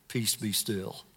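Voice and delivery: quiet and low, calm command. Acted. Jesus quietly stilling the wind, low and calm. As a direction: still the storm with a hushed, low word.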